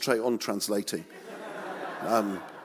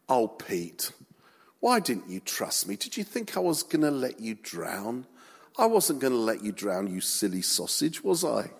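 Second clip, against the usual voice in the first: gentle Jesus. Shown as a demonstration. Jesus to sinking Peter, hushed and tender whisper. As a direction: comfort him like a frightened friend. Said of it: "I think it was more like this".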